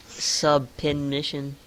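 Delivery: mock announcer, spacing out each syllable slowly; Lillian Garcia. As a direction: announce a made-up result deliberately. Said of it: "Lillian Garcia's like".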